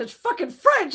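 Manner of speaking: high-pitched mock outrage; retold exasperation. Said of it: "I said".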